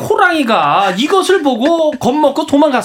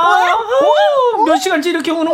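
put-on higher-pitched mother pleading with a wailing child; exasperated mother; 7 semitones higher, slower than usual. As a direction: coax and scold the crying child, dragging out the plea. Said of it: "엄마의 목소리가 들려왔습니다". (우는 아이 달래다 지친 엄마 목소리)

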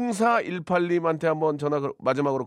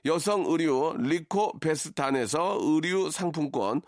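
brisk ad read of prize list; sponsor list read; 4 dB quieter, slower than usual. Acted. (라디오 협찬 광고 낭독)

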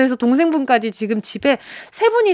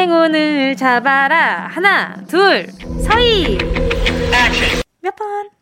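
booming prize announcer; 2 semitones higher, slower than usual. Acted. Host runs prize draw countdown.

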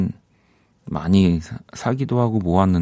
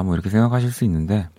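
ordinary talk, nothing marked

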